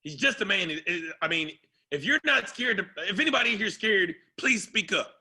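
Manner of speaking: mock-fiery coach calling out his players; fired-up coach. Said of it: "He's like".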